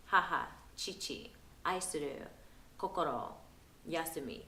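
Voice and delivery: "Haha", "chichi", "aisuru", "kokoro", "yasumi" each set apart; emphasis on words. Shown as a demonstration. Parent repeating key words in Japanese, "Haha", "chichi", "aisuru", "kokoro", "yasumi" each emphasised separately. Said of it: "place emphasis on the same words".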